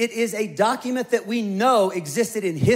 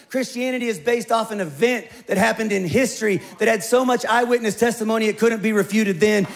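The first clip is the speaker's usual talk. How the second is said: usual speaking voice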